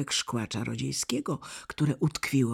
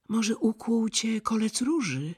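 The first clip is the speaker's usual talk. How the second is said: caring; 10 semitones higher than usual. A narrator's reading. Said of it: "rzekła troskliwie Gerda".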